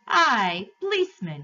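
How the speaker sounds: loud, rising-pitch cabby's hail; calling out. Acted. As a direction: hail the policeman from the crowd. Cabby hails the policeman.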